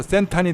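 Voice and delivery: 센탄 with no R and the final L said as N; Thai pronunciation. Shown as a demonstration. Explaining Central as Thai people say it. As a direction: say 센탄 the Thai way, ending on N. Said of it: "R도 발음하지 않고 맨 뒤에 L도 N으로".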